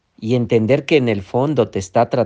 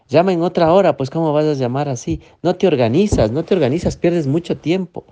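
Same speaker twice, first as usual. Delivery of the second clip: scolding inner critic; 5 semitones higher, faster than usual. Acted. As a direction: bark it like a harsh inner critic who's fed up. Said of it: "la otra voz".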